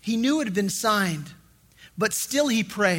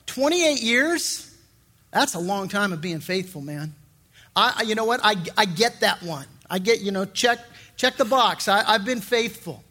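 smug excuse. Pretend. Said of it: "I had the attitude where I said".

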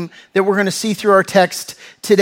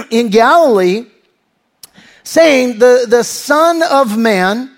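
emphatic, slightly raised reading voice; scripture reading; 3 semitones higher, 3 dB louder than usual. Acted. Preacher reading the angels' words to the church, emphatic scripture reading. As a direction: read the verse out firmly to a congregation. Reads scripture aloud to congregation.

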